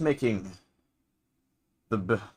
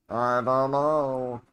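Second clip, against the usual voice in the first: put-on old man voice; much slower than usual. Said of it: "old man voice".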